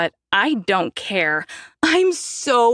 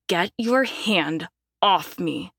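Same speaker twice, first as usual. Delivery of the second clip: grind each word out; through gritted teeth; slower than usual. Acted. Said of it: "I grind out through gritted teeth".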